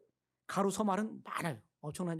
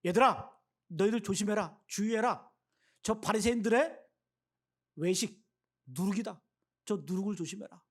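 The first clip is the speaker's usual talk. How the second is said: Jesus warning disciples; 3 dB louder than usual. Acted. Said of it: "제자들에게".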